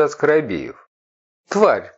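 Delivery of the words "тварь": a growled insult, pitched up. A narrator's reading. Aliyat rages at her faithless partner, growling. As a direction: spit the word out like a snarl. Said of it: "рычала она".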